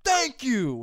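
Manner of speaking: loud, high, pointed acknowledgement; acted-out exasperated thank-you; indignant thanks. Student getting glasses back, indignant.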